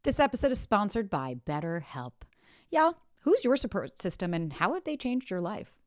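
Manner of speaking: personal, scripted sponsor plug; host-read advertisement; podcast ad read. Shown as a demonstration. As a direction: read the sponsor spot to your listeners. Reads a sponsor ad.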